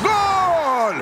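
slow, roaring commentator cheer; goal call shout. Acted. Commentator cheering the Sultans' third goal, excited shout. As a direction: shout it out to the stands.

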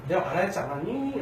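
mild, kindly reminder; very gentle. Acted. Jesus gently reminding those who asked him, mild. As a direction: say it softly and patiently. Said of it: "굉장히 온화하게".

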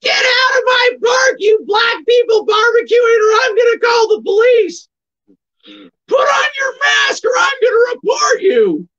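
high shouting female Karen impression. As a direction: shout it up high like an outraged Karen demanding service. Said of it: "There, that's a good Karen".

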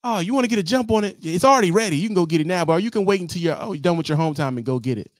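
high, fast dispatcher; high eager dispatcher. Retold or imitated. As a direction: sell the early pickup. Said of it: "They tell you".

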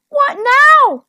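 loud, very high yelp; startled storybook squeal of a question. A narrator's reading. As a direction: yelp it in alarm. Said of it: "yelped Harry".

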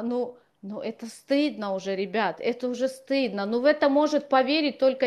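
ordinary talk

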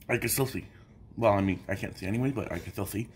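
lisping from a swollen tongue. Real, not acted. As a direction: speak with a burned, swollen tongue. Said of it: "What's with the lisp?".

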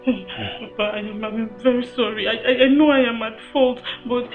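soft, halting apology; contrite apology. Acted. Woman admitting fault to Papa, subdued and contrite. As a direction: stumble quietly into the apology.

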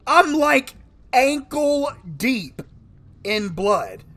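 high, loud horrified voice. Real, not acted. Horror at the blood.

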